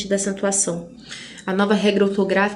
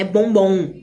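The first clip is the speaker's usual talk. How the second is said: "Bombom" with the final "bom" slightly stronger; stress on last BOM; 2 semitones lower than usual. Shown as a demonstration. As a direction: put a little more weight on the second syllable of "Bombom". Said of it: "mais alta".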